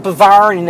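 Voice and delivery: "Bavarian" squashed into "buh-VARN"; mangled Bavarian. Shown as a demonstration. Worker mimicking customers' botched Bavarian, squashed mispronunciation. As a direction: swallow the ending of "Bavarian", saying "buh-VARN". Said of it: "It's not Barvarian".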